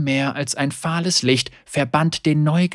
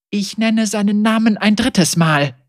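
raised, higher voice; ritual incantation; 8 semitones higher, 5 dB louder than usual. Acted. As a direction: chant it with fury. Ritual naming of the traitor.

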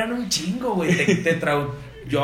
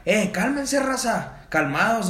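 retold shout; 6 semitones higher, slower than usual. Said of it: "el vato empezó a gritar".

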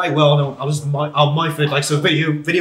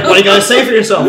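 laughing quote; 6 semitones higher, 10 dB louder, faster than usual. Retold or imitated. Retold quote while laughing.

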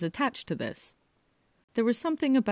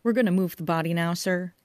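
muffled through a face mask; 4 dB louder than usual. Acted. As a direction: speak from behind a plastic mask. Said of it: "came a muffled voice".

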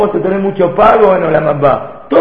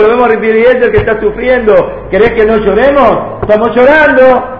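upset students protesting; 3 semitones higher than usual. Acted. Students protest to Rabbi Akiva.

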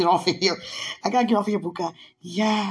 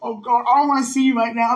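high, loud, bursting with excitement; can't sit still, voice shooting up; excited giggling squeals; hyped up; 8 semitones higher, 4 dB louder than usual. Real, not acted. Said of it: "See how hyped I am now?".

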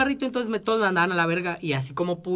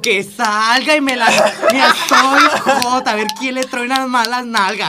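defiant; 6 dB louder, slower than usual. Retold or imitated. Retelling his defiance, laughing.

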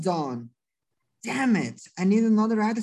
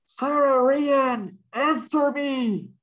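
desperate; 3 semitones higher, slower than usual. Acted. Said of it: "now desperate".

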